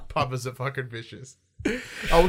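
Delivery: ordinary talk, nothing marked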